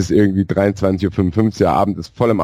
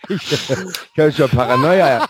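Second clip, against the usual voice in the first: laughing; 6 semitones higher, slower than usual. Real, not acted. Laughing, pleading for affection.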